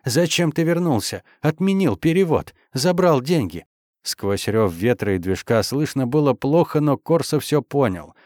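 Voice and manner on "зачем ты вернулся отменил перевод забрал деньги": shouting. A narrator's reading. Woman shouting over engine.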